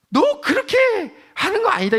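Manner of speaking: high, loud parental scolding; parent admonishing child. Acted. Parent correcting their own child, loud admonishing. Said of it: "아버지들이 자기 자식에게, 엄마가 자기 딸에게".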